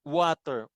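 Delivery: "Water" starting with an oo sound. Shown as a demonstration. Teacher shows that W sounds like U, "Water" begun on oo. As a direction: begin "Water" as oo-ah-ter. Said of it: "Ano yung bigkas sa W".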